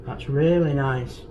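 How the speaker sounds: chewing while talking; talking through a mouthful; mouth full. Real, not acted. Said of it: "Sorry to talk with my mouth full".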